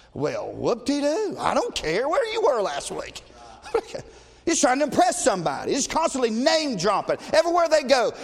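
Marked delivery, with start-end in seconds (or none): 0.1-3.2 slow, dry mock unimpressed; drawn out, sarcastic and unimpressed; sarcastic whoop-de-doo. Mocking a boastful preacher.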